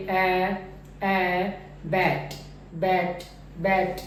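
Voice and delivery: ए held open as in बैट; first part of ऐ. Shown as a demonstration. Teacher showing the first vowel to students. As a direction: open ए then बैट with no glide. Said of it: "पहला part है".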